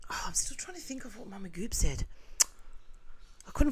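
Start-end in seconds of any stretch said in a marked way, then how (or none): 0.1-2.1 whisper. Real, not acted. Whispering at night.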